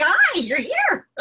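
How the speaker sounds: slow, high, loud happy greeting; dog's greeting. Retold or imitated. The dog greets her, slow, high and loud. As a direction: voice the dog's joyful hello. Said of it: "just like".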